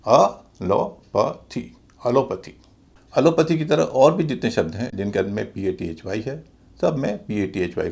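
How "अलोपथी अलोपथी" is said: अलोपथी drawn out slowly: a-LO-pə-thee, stress on LO; correct pronunciation. Shown as a demonstration. Teacher carefully modelling अलोपथी for the class. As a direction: stretch अलोपथी out, then say it again short. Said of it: "पूरे शब्द का उच्चारण होगा".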